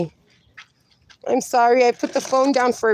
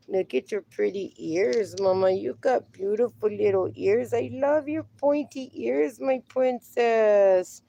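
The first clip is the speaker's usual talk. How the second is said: soft pet talk; 4 dB quieter than usual. Real, not acted. Owner cooing to her dog about its pointy ears, soft and tender. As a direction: croon to a sweet little dog.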